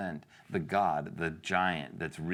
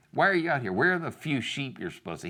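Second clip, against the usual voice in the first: high, raised scolding; angry, demeaning; 7 semitones higher, faster than usual. Acted. David's brother criticizing him, angry and demeaning. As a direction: belittle a younger brother with sharp questions. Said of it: "He gets angry with him".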